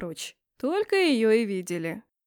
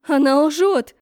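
much louder, shrill accusation; hysterical outburst; 3 semitones higher, 9 dB louder, slower than usual. A narrator's reading. Empress interrupts girl to guards, hysterical. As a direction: cut her off in hysterical rage. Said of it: "перебила меня истеричная дамочка".

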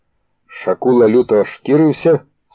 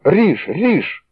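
higher frantic screaming; hysterical yell; 6 semitones higher, slower than usual. A narrator's reading. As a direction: egg him on in panic. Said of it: "істерично заволав Філон".

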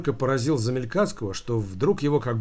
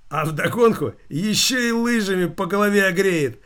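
higher, louder, laughing through the words; guffawing; 7 semitones higher, 5 dB louder than usual. A narrator's reading. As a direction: roar with laughter at the joke. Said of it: "заржал директор". (хохоча во весь голос)

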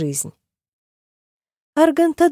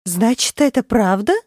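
strangled squeak; 4 semitones higher than usual. A narrator's reading. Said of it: "сдавленно пропищала она".

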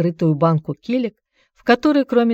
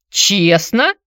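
higher, louder questioning rise on "Честно"; incredulous; 4 semitones higher, 4 dB louder than usual. A narrator's reading. Anatoly doubting how Antonina got the money, incredulous. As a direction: ask "Честно" in disbelief. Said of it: "передразнил он".

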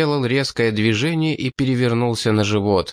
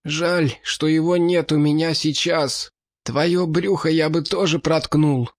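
hoarse rasp; 6 semitones higher than usual. Acted. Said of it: "прохрипел".

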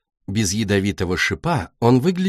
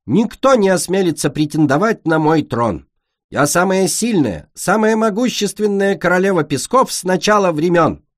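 higher, grand mock-royal boasting; boastful queen; 7 semitones higher than usual. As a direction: play a pompous queen of the sands. Sunny plays the boasting queen.

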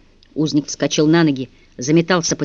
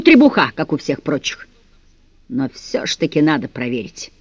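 villain taunting his captive prisoner, mocking and cold; menacing villain. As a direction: savour the threat like a cruel captor. Villain Andreyka's threatening speech.

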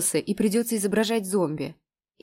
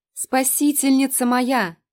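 grateful sigh; 6 semitones higher, 6 dB louder, slower than usual. A narrator's reading. Lena thanks for the water.

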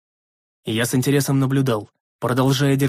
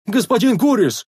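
high plaintive call; sorrowful wail; 9 semitones higher, 4 dB louder than usual. A narrator's reading. Sentry calling down from the wall, sorrowful wail. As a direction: wail out from afar. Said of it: "горестный вопль давешнего часового".

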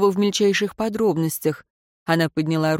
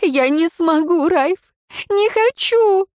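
high, loud, slow, breaking sob; desperate wail; 12 semitones higher, 5 dB louder, slower than usual. A narrator's reading. Woman begging her dying lover not to leave, sobbing loudly. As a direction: plead through tears, voice cracking. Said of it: "с надрывом провыла она".

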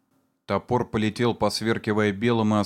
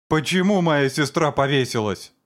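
high, louder tearful cry; shrill tearful shriek; 5 semitones higher, 4 dB louder than usual. A narrator's reading. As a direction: shriek it through tears. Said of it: "пронзительно взвизгнул Суджоу со слезами в голосе". (пронзительный визг со слезами в голосе)

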